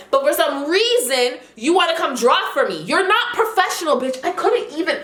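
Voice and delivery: real anger rising as she retells it; getting heated. Real, not acted. Telling viewers off the unprofessional host, heated. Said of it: "I'm getting heated just thinking about it now".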